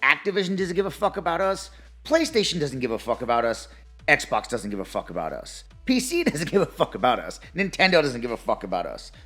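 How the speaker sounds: heated ranting list; fired-up rant, punching each company; raging gamer. Real, not acted. Building rant listing companies.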